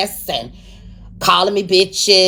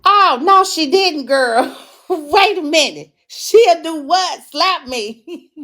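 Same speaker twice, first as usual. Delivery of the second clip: shocked disbelief; 9 semitones higher, slower than usual. Real, not acted. Host reading a viewer comment, voice jumps high in disbelief. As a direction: gasp at the nerve of it, then laugh. Reacting to a comment read aloud.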